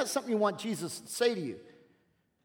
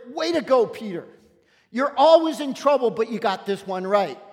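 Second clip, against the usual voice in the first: louder, excited cheer for Peter; 6 dB louder than usual. Acted. Preacher cheering Peter on for the congregation, excited and louder. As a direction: celebrate like a fan, way to go.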